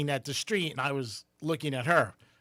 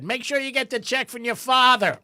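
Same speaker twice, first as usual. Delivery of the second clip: higher, louder mom voice; mom's saying; 9 semitones higher, 5 dB louder than usual. Retold or imitated. Mom reminding her son about the check, higher imitation. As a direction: mimic mom's stern reminder. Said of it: "One of the things she always said".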